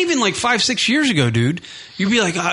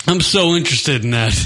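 sarcastic. Acted. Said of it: "I am totally interested".

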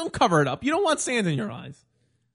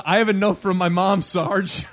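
whiny recruit; 6 dB louder than usual. Pretend. Mock recruit excuses.

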